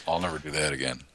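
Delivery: soft breathy whisper; whispered aside; hushed whisper. Real, not acted. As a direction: drop into a secretive whisper. Whispered aside about snail reincarnation.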